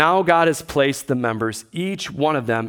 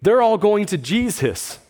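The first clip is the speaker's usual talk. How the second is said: fast, higher, mock-panicked disciples; 6 semitones higher than usual. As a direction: imitate the disciples, fast and worried. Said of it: "And they're like".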